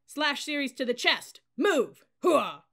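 high, loud military order and cry; shouted drill command. A narrator's reading. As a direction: shout it to the whole formation. Bayonet drill command and response.

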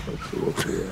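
breathy musing whisper. Real, not acted. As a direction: whisper it to yourself. Musing to himself.

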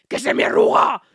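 very high, loud shriek; woman at a traffic light crying out in panic; panicked cry. Retold or imitated. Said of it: "le miro y le digo".

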